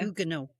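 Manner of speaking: Huguenot as OO-guh-no, T silent; French-style pronunciation. Shown as a demonstration. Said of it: "you wouldn't pronounce the H".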